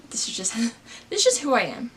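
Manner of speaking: whispered with a laugh, like a confession; giggly whispered admission. Real, not acted. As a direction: breathe it out as a sheepish aside. Self-aware joking aside.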